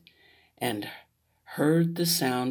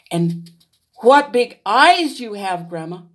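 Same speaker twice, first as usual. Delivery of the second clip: put-on little girl wondering; 5 semitones higher, 7 dB louder than usual. Little Red questions.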